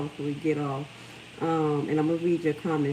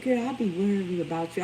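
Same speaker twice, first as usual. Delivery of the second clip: sounding like grandma. Retold or imitated. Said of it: "I sound like my grandma".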